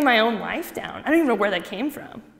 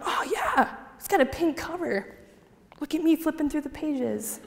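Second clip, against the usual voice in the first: laughing sarcasm; 4 semitones higher, 5 dB quieter than usual. Retold or imitated. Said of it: "I was like".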